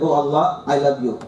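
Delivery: tender. Shown as a demonstration. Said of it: "just say this hundred times".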